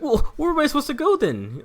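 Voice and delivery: high-pitched, loud mock exasperation; imitated yelling customer. Customer asking clerk where to go, exasperated mock yelling. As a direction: play an irate customer demanding answers. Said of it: "he's yelling at me".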